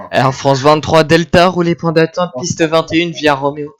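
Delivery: crisp radio phraseology, controller voice; air traffic controller. Acted. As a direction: read it like tower radio. Controller reads radio clearance.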